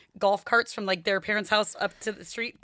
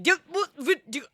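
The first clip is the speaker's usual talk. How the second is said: higher, raised panicked stammer; alarmed calling out; 7 semitones higher, slower than usual. Retold or imitated. Mom shouting at the kids in the golf cart, higher and raised. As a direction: stumble over words in mock alarm. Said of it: "and I was like".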